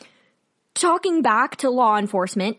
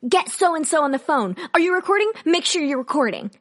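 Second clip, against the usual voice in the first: raised-pitch, mildly frantic retold orders; mock freak-out; 3 semitones higher than usual. Imitating a handcuffed woman ordering others to record, mock freak-out. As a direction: imitate a woman urgently rallying witnesses. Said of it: "she starts freaking out".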